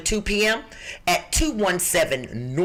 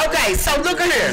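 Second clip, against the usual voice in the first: Texas drawl; 7 semitones higher than usual. Shown as a demonstration. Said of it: "I've been in Texas too long".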